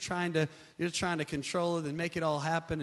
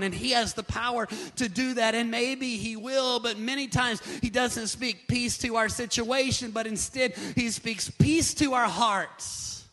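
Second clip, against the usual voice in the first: raised preacher's pitch building to a climax; impassioned preaching; 4 semitones higher, 4 dB louder than usual. Real, not acted. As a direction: stretch the final words with conviction.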